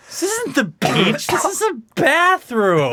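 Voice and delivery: slow high porn delivery; porn actress. Retold or imitated. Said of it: "if I was in any kind of porno".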